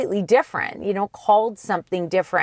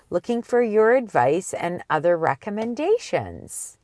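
reading a viewer email. Acted. Host reads out a viewer question, lightly read.

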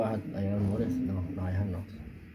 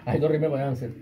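laughing; 4 dB louder than usual. Real, not acted. Laughing during playful argument.

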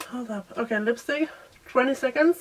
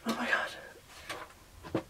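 slow, drawn-out whisper; 12 dB quieter, much slower than usual. Real, not acted. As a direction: breathe it out slowly. Panicked makeup timer, whispering.

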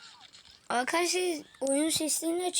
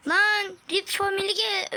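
excited shout; 6 semitones higher, 6 dB louder, slower than usual. Real, not acted. Sudden event in game.

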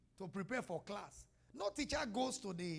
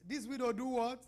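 louder, prompting the crowd; to someone hard of hearing; 2 semitones higher than usual. Shown as a demonstration. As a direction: call it out so they answer. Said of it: "I can't hear you. Speak louder".

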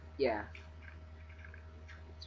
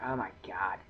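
whisper; 3 semitones lower than usual. Real, not acted. Waiting for the villager.

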